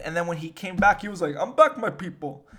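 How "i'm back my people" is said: higher, louder mock-grand return; triumphant comeback announcement. Returning leader greets his people, triumphant mock announcement. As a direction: proclaim it like a leader back from death. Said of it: "why I said it like that".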